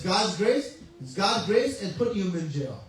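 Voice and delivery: a king snapping back in rage; retold fury at the minister; angry king. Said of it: "the king became very upset".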